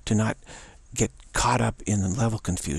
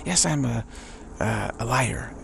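nice, positive, happy; slower than usual. Shown as a demonstration. Teacher agreeing with the ego's accusation in a happy way. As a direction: sing out the yes gladly, then agree calmly. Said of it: "In a nice, positive, happy way".

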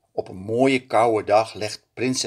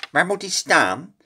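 higher servant voice; a lakei asking, out of breath; 7 semitones higher than usual. A narrator's reading. Lakei asks, carrying the sled. (lakei die puft en steunt)

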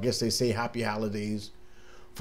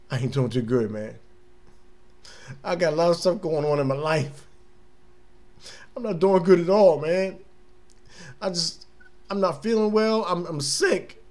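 mock sick complaint; 4 semitones higher than usual. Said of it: "I be like that".

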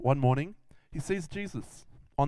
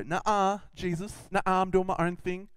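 higher-pitched sassy refusal; mock defiance; 5 semitones higher than usual. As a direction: wave Jesus off like a stubborn kid. Acts out people defying Jesus.

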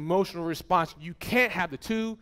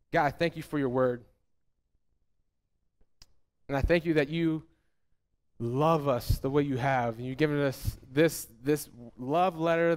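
closing prayer; 3 semitones lower than usual. Acted.

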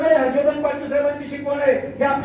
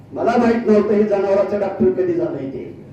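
usual speaking voice

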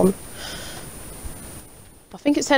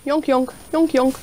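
goose honking; 6 semitones higher than usual. Pretend.

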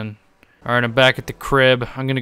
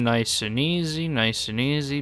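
soothing; 6 dB quieter than usual. Real, not acted. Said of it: "let's not get her killed this time".

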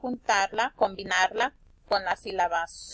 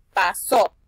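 pasó with a louder second syllable, SÓ; stress on SÓ; 2 semitones lower, 7 dB louder than usual. Shown as a demonstration. Teacher explains the tilde, pasó stressed on só. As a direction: hit the final só of pasó hard. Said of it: "la sílaba so se pronuncia más fuerte".

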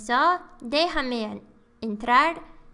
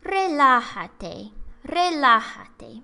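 reassuring; slower than usual. Acted. Meme reassuring line, slowed.

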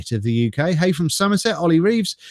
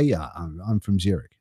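lower, softer, mock-posh self-satisfied voice; 9 semitones lower, 7 dB quieter than usual. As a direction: say it like someone who knows they sound rich. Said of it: "It just sounds posh".

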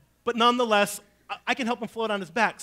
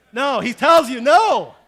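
slow, much louder declaration; emphatic loud no; 5 semitones higher, 14 dB louder, slower than usual. Real, not acted. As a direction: hammer the no home to the congregation. Emphatic answer to own question.

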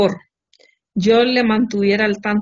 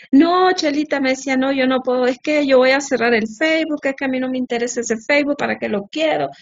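higher, wheedling refusal; mock pleading husband; 4 semitones higher than usual. Wife imitating husband pleading out of the Facebook demand, higher. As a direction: play him begging off sweetly.

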